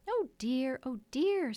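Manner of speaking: exasperated sighing. A narrator's reading. Wendy to the interrupting children, sighing. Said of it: "sighed Wendy".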